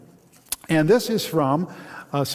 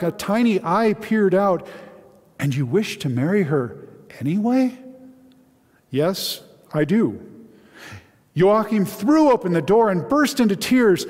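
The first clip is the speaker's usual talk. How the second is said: expressive read-aloud storytelling; dramatic Bible story narration; 3 semitones higher than usual. A narrator's reading. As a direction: read the Joseph passage aloud to the congregation with feeling. Pastor reads a novel excerpt aloud.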